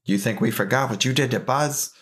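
a hint of a gruff Mister Potato Head; lightly voiced talking potato toy. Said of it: "that's my Mister Potato Head impression".

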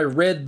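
"read" said as "red"; short e in "read", rhyming with "bed"; past-tense pronunciation. Shown as a demonstration. Teacher giving an example sentence, past-tense pronunciation. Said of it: "one can be pronounced R E D".

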